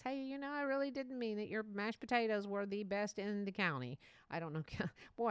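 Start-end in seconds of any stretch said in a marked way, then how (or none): 0.0-4.0 country bumpkin. Pretend. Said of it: "I sound like just a country bumpkin".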